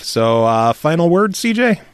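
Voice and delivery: muffled bad connection. Real, not acted. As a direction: sound muffled through a poor line. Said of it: "God, you're such a robot".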